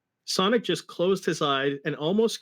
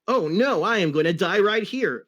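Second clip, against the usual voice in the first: mock panic; 4 semitones higher, 4 dB louder than usual. Sonic thinks he will die.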